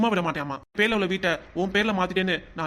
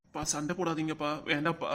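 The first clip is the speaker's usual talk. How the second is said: put-on pleading child; 3 semitones lower, 7 dB quieter than usual. Child begs parents to stop.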